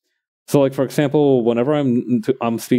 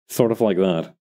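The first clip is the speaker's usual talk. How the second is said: military voice; 2 semitones lower than usual. Shown as a demonstration. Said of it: "this one military voice that I can do better".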